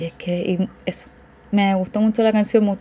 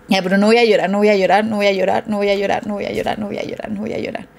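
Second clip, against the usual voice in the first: holding back tears; faster than usual. Real, not acted. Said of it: "Me estoy aguantando todo el lagrimeo".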